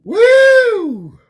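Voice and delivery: cheering whoop. Real, not acted. Cheering after successful rolls.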